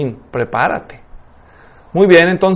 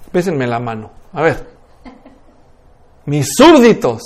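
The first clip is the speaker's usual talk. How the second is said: little king; 5 semitones lower than usual. Acted. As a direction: address your subjects like a self-satisfied little monarch. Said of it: "con el reycito".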